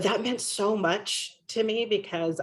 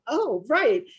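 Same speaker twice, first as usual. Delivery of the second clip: sheepish realization; 7 semitones higher, 4 dB louder than usual. Retold or imitated. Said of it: "And I was like".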